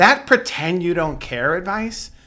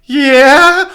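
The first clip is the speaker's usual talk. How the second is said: son's yeah; 10 semitones higher, 9 dB louder than usual. Retold or imitated. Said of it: "Miles is like".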